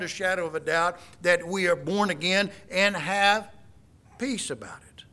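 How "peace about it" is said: hushed. Real, not acted. Sermon builds to assurance.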